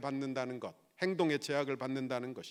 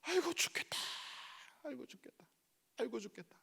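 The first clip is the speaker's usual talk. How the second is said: high-pitched put-on moan, trailing softer with each repeat; mock grumbling; 10 semitones higher, 4 dB quieter, faster than usual. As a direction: act out a whiny complainer, fading away. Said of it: "원망하고 불평". (높은 소리로 투덜대는 흉내, 점점 작게)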